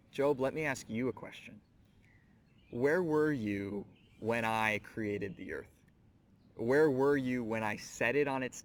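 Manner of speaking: rhetorical questions rolled out like thunder; God's challenge. Retold or imitated.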